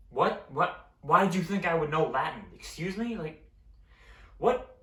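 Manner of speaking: rising, disbelieving "What?" that climbs to a high, loud last "what?"; baffled and annoyed at being spoken Latin to; incredulous what. Real, not acted. Baffled outrage at Latin remark.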